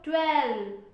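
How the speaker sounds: ट्वेल्व said loud and clear with a crisp L; clear pronunciation. Shown as a demonstration. Teacher modelling ट्वेल्व for students, loud and crisp. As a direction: model ट्वेल्व firmly for the class. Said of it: "pronounce करो".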